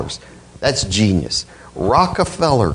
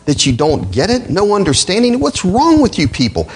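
rising higher, incredulous rebuke; exasperated scolding; 4 semitones higher than usual. Retold or imitated. Paul rebuking the Galatians, incredulous and rising higher. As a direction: scold them like you can't believe it. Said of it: "he's telling them".

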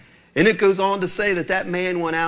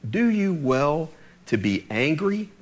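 gentle; 2 semitones lower than usual. Retold or imitated. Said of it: "he's so gentle with him".

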